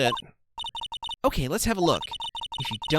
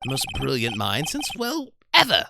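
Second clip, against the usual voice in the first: higher, proud ace detective bragging; boastful detective; 9 semitones higher, 4 dB louder than usual. Acted. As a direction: show off like the greatest mind ever.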